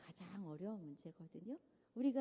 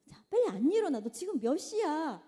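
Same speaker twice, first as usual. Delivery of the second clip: louder, higher nagging mom yelling; scolding mother; 5 semitones higher, 7 dB louder than usual. Retold or imitated. Mother scolding her child to get out of bed, loud and higher. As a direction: snap at the sleepy kid to get up.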